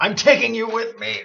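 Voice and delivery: high, ragged, rough, hoarse yell. Voicing a dying enemy who stabs a hero: yelling in character. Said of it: "he yells out".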